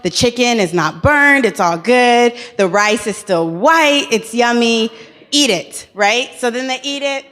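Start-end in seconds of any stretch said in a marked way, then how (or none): 0.0-5.9 proud cook. Retold or imitated. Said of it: "I'm like".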